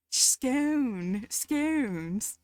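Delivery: exaggerated posh British "scone"; teasing posh British impression; mock posh. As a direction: draw it out in a put-on posh British accent. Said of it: "So posh".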